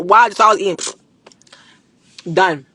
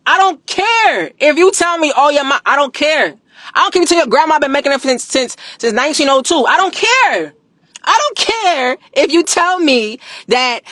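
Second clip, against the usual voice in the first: higher, dismissive I don't care; defiant; 4 semitones higher than usual. Real, not acted. Creator brushing off rival sea moss claims, defiant. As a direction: wave off every objection.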